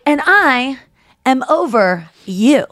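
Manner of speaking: loud, slow, drawn-out tipsy declaration; hammed-up drunk boast. Rachel telling Ross she is over him, loud and slow. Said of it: "she's like".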